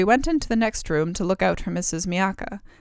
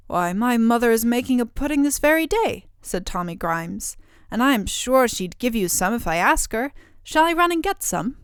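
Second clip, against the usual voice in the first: put-on eager little boy; 4 semitones higher, 4 dB louder than usual. Boy offers to fetch pudding.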